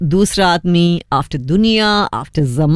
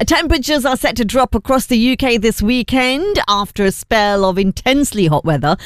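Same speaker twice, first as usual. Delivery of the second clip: radio news bulletin delivery; news read. Acted. Presenter reading the heatwave story to listeners, news read. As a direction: read it as a measured newsreader.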